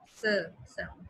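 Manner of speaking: "S" voiced as a short "suh"; "S" as a phonetic "suh"; isolated S sound. Shown as a demonstration. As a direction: sound out "S" as "suh", not the letter name. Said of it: "Repetition of S sound".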